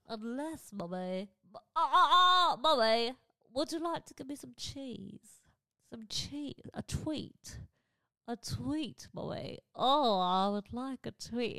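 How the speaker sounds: high, slow begging puppy voice with a laugh; the dog begging mommy for a treat, high and coaxing; dog's voice. Pretend. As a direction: wheedle for cheese as the dog. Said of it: "a voice for their dog".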